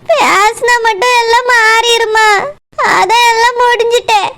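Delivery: slow, hurt hopelessness; despairing. Acted. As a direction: answer as if all is lost. Despairing woman rejects comfort.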